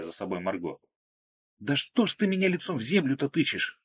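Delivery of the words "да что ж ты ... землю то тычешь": higher, good-natured protest; mild indignation. A narrator's reading. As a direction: complain without real anger. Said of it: "беззлобно возмутилась она".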